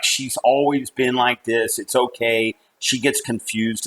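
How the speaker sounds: soft, slow, soothing dismissal; imitated father smoothing things over; retold reassurance. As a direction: play it down quietly and unhurriedly. Father downplays the alarm, retold.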